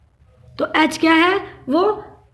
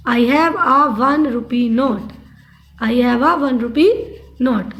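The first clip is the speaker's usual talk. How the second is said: slow dictation; 2 semitones lower, much slower than usual. Shown as a demonstration. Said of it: "teacher dictating example sentence".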